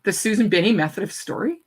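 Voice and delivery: disbelieving question rising at the end; incredulous echo. Retold or imitated. Speaker echoing the student's phrase back, incredulous. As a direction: repeat her words in total disbelief.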